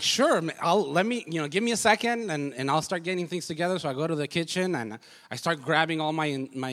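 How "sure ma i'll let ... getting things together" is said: eager and much higher, louder; keen husband ready to show off; excited. Retold or imitated. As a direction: jump at the chance to cook. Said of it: "like, excited".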